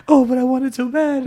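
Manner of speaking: high mock-needy whine; a hammed-up lovesick plea; mock longing. Voicing Ling whiny longing.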